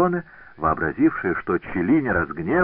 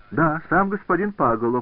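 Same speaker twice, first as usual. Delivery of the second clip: higher, stung confirmation; piqued retort; 9 semitones higher than usual. A narrator's reading. Scotsone stung by Cellini's scorn, piqued retort. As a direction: throw the name back, offended. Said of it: "задетая презрительным тоном".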